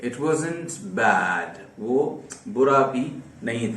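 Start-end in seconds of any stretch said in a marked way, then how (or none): 0.1-1.6 each word laid out slowly for learners; slow teacher's example sentence; slow dictation. Shown as a demonstration.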